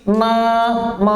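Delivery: na, ma said flat and clipped, no nasal lead; wrong na ma. Shown as a demonstration. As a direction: show the wrong reading of na, ma. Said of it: "jangan sampai juga dibaca begini". (contoh bacaan salah na, ma)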